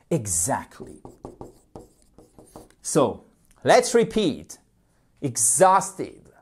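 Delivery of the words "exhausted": Exhausted with HAUST hit hard; stress on second syllable. Shown as a demonstration. Teacher shows where the accent falls, stress on second syllable of "Exhausted". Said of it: "accentuation sur la deuxième syllabe".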